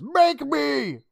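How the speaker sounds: very high-pitched mock taunt; defiant comeback. Kid refusing the girl who yelled, defiant. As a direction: throw it back as an exaggerated childish dare. Defiant reply in acted shouting match.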